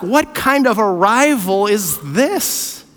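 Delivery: slow, puzzled question as Mary; Mary's wondering question. Retold or imitated. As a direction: ask it slowly, in wonder. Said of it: "what's the question Mary is going to ask".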